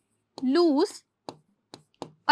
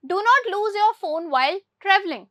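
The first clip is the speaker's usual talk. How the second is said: very slow, word by word, for the class; slow dictation; 4 semitones higher, much slower than usual. Shown as a demonstration. Teacher reads the English example to pupils very slowly. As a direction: spell out every word for Hindi-speaking pupils. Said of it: "teacher reads example sentence slowly".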